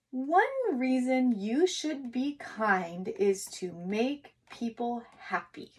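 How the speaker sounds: put-on slow, deliberate dictation to young writers; teacher dictating each word slowly for kids to write. Shown as a demonstration. Teacher reading the sentence aloud slowly for kids to copy.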